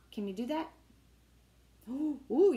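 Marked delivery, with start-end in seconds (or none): 1.9-2.5 impressed gasp. Real, not acted. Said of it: "you're good at that".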